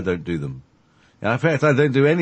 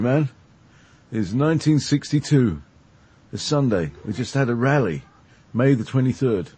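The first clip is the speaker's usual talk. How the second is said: put-on hippie American accent; 2 semitones higher than usual. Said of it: "with a great accent like this".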